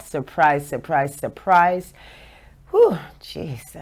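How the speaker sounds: out of breath, puffing between words. Real, not acted. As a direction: say it out of breath, catching air. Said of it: "I'm out of breath".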